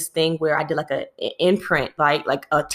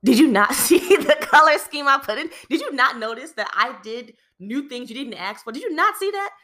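much higher, laughing incredulous questions; indignant disbelief; 8 semitones higher than usual. Retold or imitated. Picturing her boss, higher incredulous did you not questions. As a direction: demand to know why it wasn't noticed. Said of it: "that was honestly what I felt".

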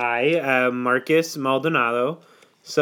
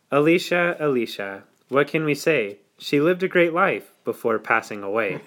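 poem recital. Acted. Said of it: "I wrote a kind of poem today".

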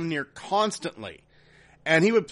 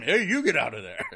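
seal mimicking; 4 semitones lower than usual. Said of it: "the seal started looking at him".

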